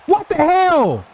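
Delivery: a loud, high-pitched shout of disbelief; furious shout. Real, not acted. Gamer shouts at the screen after a floater, loud and high. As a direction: scream it at the screen. Sudden bad play on a floater.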